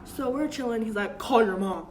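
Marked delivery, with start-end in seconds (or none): 1.2-1.9 stern command. Retold or imitated. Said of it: "he didn't yell, but you know how guys talk".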